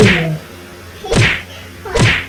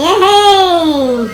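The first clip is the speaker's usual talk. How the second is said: bright happy cheer, loud; 4 semitones higher, 4 dB louder than usual. Real, not acted. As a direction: celebrate the finish out loud. Cheering at fifty.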